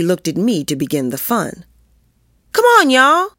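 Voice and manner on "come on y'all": high, loud call to the gang; rally the kids, voice pitched high. A narrator's reading. Girl leading the kids into mischief, rallying call.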